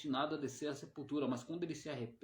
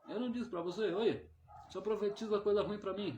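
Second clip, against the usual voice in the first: complaining king; 7 semitones higher than usual. Retold or imitated. King complains about Micaiah.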